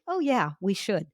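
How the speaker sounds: breezy, offhand agreement; very casual. Retold or imitated. Brushing off a business contact, very casual. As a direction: toss it off lightly, no commitment. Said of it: "get very casual".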